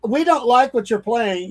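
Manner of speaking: high, mock-offended passenger voice; whiny passenger. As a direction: whine it like a prissy complainer on the bus. Voicing a complaining bus passenger.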